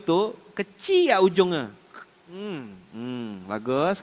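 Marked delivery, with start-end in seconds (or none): 2.3-4.0 low, soft mock-approving hum; garang tapi senyum. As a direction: imitate a fierce mother pinching with a smile. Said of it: "Mama saya garang, senyum". (tiruan mama garang, pelan dan rendah)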